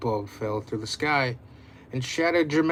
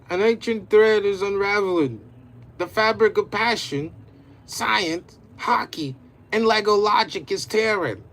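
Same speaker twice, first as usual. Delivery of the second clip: grand prophecy voice; 6 semitones higher, 5 dB louder than usual. Acted.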